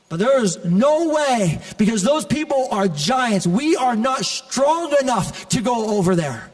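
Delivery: emphatic preaching. Acted. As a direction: preach the objection word by word, stretched out. Acted objection of the ten spies.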